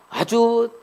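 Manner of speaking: normal talking voice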